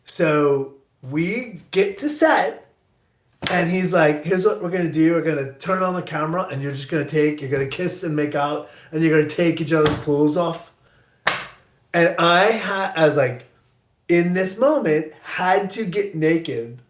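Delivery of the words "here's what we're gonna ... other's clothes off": director's Scottish lilt, imitated; imitated Scots accent; Scottish brogue. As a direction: pitch an idea in a Scottish brogue. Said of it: "he has this great brogue".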